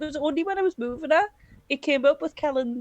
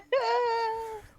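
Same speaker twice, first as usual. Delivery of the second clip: laughing; 10 semitones higher, 3 dB quieter than usual. Real, not acted. Laughs after indecision.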